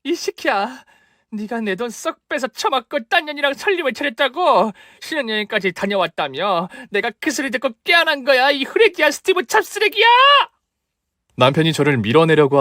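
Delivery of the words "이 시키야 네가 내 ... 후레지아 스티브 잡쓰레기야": high, shrieking abuse; wife raging at the cheating husband; furious tirade. Acted. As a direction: rip into him.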